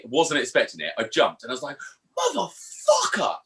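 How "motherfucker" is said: high, drawn-out startled yell; retold yell. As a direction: bellow it slowly like the dog just bit you. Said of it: "but really loud".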